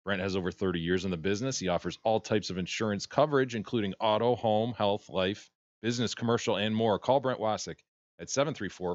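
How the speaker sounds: upbeat sponsor read. Acted. Host reading an insurance ad to listeners. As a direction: sell it like a radio spot.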